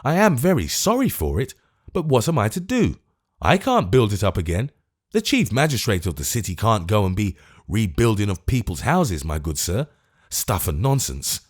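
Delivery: lightly voiced fussy magistrate; testy voice. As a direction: brush the complaint off peevishly. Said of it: "replied a testy voice".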